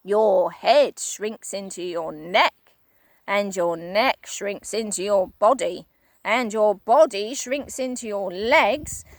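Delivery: a hint of a ghoulish old man; Mister Twit, gloating. Husband describing the disease, gloating. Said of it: "he said".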